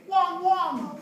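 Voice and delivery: high-pitched little barks; Taiwanese dog bark. Shown as a demonstration. Teacher showing how dogs sound in Taiwan, high barking. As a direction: yap it up high. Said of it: "In Taiwan, they say".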